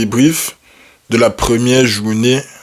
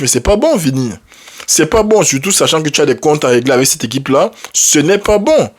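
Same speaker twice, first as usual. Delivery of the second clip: scolding; 4 semitones higher than usual. Real, not acted. Scolding Vinicius for missed chances.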